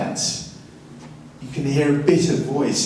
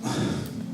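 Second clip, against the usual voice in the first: sigh; 10 dB quieter than usual. Shown as a demonstration. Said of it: "we got a load of".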